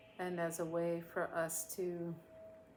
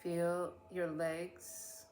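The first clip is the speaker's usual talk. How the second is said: unhurried meditation voice with long pauses; measured instructions, trailing softer at phrase ends; guided meditation; 5 dB quieter than usual. Real, not acted. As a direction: guide listeners gently through a body scan, leaving space after each phrase.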